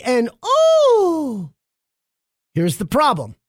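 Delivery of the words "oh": high breathy toy gasp; gasping doll voice. Retold or imitated. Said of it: "the doll gasps and giggles and says things like".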